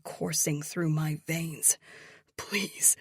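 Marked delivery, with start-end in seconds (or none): 2.4-2.9 trembling voice. A narrator's reading. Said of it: "His voice trembles".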